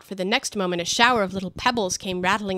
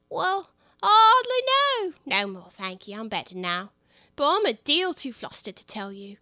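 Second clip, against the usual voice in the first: high, faint squeak of a dazed lizard; a lightly voiced flustered little lizard; feeble squeaking voice; 5 semitones higher, 4 dB louder than usual. Bill telling the others what happened, feeble and squeaky. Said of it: "a little feeble squeaking voice".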